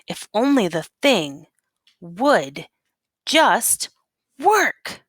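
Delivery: building frustration. Acted. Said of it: "too full of all the not right things".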